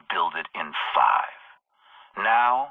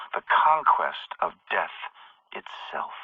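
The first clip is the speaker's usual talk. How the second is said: awed whisper; 2 semitones lower than usual. Acted. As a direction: whisper the final word. Villain reveals his goal.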